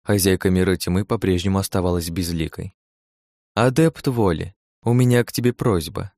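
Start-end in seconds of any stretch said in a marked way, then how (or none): 3.5-6.1 enveloping voice. Acted. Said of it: "таким голосом говорит, словно обволакивающим".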